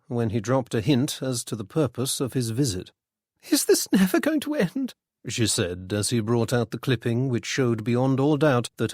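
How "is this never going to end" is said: high, dismayed woman's voice; lightly voiced lady in dismay. A narrator's reading. Widow dreading exposure asks Freddy, dismayed woman's voice.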